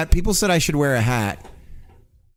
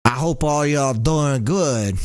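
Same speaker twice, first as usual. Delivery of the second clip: put-on half-hearted Cajun accent, slow on the greeting; slower than usual. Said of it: "trying to do a Cajun right there".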